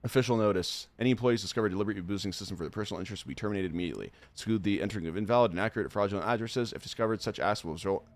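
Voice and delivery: rushed read-through of the intro message; fast game text read. Acted. Streamer reading the game's welcome message, fast read. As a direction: rattle off the official text quickly.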